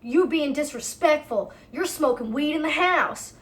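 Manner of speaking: lightly acted yelling at a housemate; mild mock yell. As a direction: imitate an indignant scolding. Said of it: "he's yelling at Bradley".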